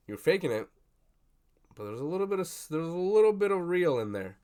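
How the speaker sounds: high, loud mock hero speech; lightly hammed Denji line; Denji's speech voiced. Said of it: "he had this whole spiel".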